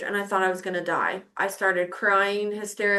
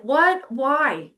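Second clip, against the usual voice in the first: retold bewilderment; 4 semitones higher, 4 dB louder than usual. Retells stunned questioning of herself.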